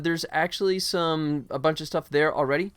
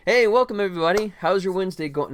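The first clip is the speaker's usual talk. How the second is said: louder, higher fake fresh welcome; mock restart intro; 4 semitones higher, 4 dB louder than usual. Streamer pretending to restart the stream, mock cheery welcome. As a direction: greet them as if starting over. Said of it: "No, I'm just kidding".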